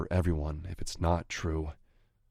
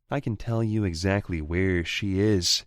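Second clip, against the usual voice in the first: higher, louder cocky sneer; gloating rival voice; 6 semitones higher, 6 dB louder than usual. Acted. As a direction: rub it in his face. Anton taunts with secret.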